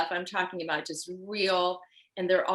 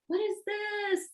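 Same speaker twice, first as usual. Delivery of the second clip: much higher, slow, wondering; amazed passerby; slower than usual. Retold or imitated. Passersby seeing the dress morph, slow high amazement. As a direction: draw it out like a stunned stranger. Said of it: "going like".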